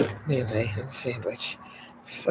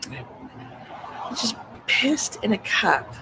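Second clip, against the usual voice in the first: laughing; 7 semitones higher, much slower than usual. Real, not acted. Laughing disbelief at stranger.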